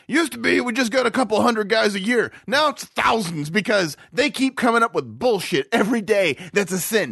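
mad devil. Acted. Devil griping about too many new sins, exasperated. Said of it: "You ever think the devil's mad".

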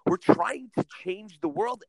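hushed, breathless whisper of wonder; an excited whisper to himself; awed whisper. Retold or imitated. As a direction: whisper it like a secret realization. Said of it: "I'm like".

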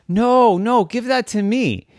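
high, loud urgent no; urgent plea. Acted. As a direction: stop her before she throws it. Girl stops mom.

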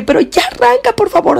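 high, frantic begging; desperate plea. Retold or imitated. Terrified girl begging her sister to start the car. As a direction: plead in near panic. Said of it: "me vio tan desesperada".

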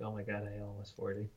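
soft, quick stunned realization; dismayed low mutter. Retold or imitated. Realizing at the gym he's nearly forty, stunned. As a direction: say it like it just hit you. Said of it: "I'm like".

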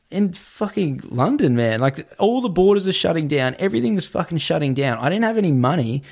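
real exasperation, pitch up; exasperated disbelief. Real, not acted. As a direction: let the panic climb in the pitch. Recalling panic at being stranded.

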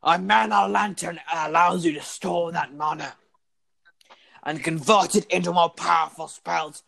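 pompous lecturing teacher voice; florid victorian lecturer. Acted. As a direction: lecture grandly like an old schoolmaster. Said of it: "that voice is so painful".

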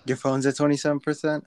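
talking with a lisp; lisping on the s sounds; slight lisp. Real, not acted. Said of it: "bro, am I getting a lisp?".

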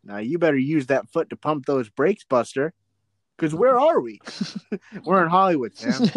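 hammed-up instructional tape presenter; cheesy infomercial host. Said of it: "Like a videotape, how to make a movie".

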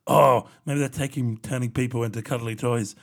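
hammed-up horror-movie realisation; overactive imagination. Imagining the house turns people into toys, mock spooky. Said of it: "My overactive imagination was like".

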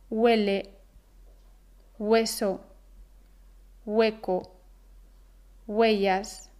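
"huele", "hueso", "hueco" con ge suave inicial; hue con leve G. Shown as a demonstration. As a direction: empieza "huele" y "hueso" casi como "güele", "güeso". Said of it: "se pronuncia un leve sonido próximo a la G". ("hue" pronunciado casi "güe")

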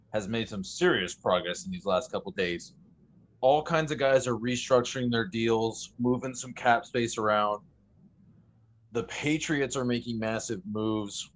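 winded, short of air; out of breath. Real, not acted. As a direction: talk while catching your breath. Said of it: "I'm still catching my breath".

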